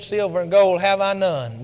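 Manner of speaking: low, hushed and stern; stern and quiet. Acted. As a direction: say it gravely and quietly. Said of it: "Peter looked at him very sternly".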